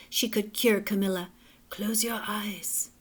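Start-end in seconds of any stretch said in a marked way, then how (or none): 1.7-2.9 soft breathy whisper of a therapist. Acted. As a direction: hush them into calm. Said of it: "she said".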